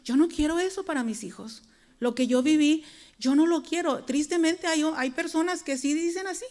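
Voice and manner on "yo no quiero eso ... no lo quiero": firm prayer. Pretend. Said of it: "podemos decir".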